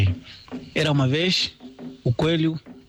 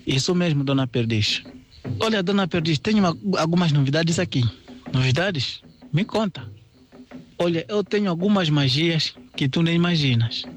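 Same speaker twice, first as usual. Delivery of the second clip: raised, lively voices for rabbit and partridge; storyteller voicing animals; 5 semitones higher than usual. Rabbit chatting up the partridge, lively raised character voice. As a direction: play the sly rabbit greeting Dona Perdiz.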